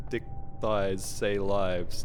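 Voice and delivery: "dick thighs say lives" drawn out slowly, each word spaced; slow, deliberate mock mishearing. Shown as a demonstration. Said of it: "It's like saying".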